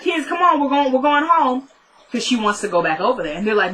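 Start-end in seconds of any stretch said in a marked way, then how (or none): 0.0-1.7 put-on higher-pitched hurried call to the kids; acted-out motherly summons, pitched up. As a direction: imitate a mom rounding up children. Retold mother rounding up her kids.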